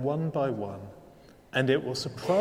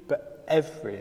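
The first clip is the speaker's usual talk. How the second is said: "every" set apart after a short pause; stress on EVERY. Shown as a demonstration. Preacher correcting "some or a few", stress on EVERY. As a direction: land firmly on "every". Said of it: "emphasis on the word every".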